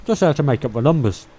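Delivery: talking through a mouthful of baguette; words muffled by chewing; mouth full. Real, not acted. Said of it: "I was talking with my mouth full".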